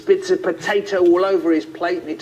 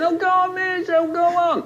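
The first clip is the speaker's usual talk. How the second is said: put-on very high whining child; whiny kid. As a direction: plead in a whiny little pupil's voice. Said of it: "The whiny ones".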